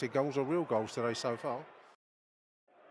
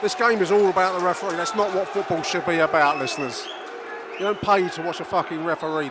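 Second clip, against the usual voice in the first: raised, indignant complaint about the ref; ranting commentary; 4 semitones higher, 6 dB louder than usual. Real, not acted. Commentator ranting to listeners about the referee, indignant. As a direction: vent to the listeners.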